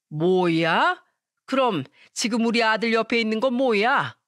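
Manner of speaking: mildly incredulous mother-in-law; dumbfounded. A narrator's reading. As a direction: question it in baffled disbelief. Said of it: "시모는 황당한 목소리로 말하더니". (황당한 목소리로)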